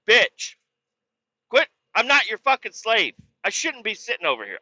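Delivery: high-pitched mock rant; fed-up comeback. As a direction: snap back, hammed-up and high. Acted comeback to being bossed.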